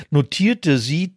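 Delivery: plain reading voice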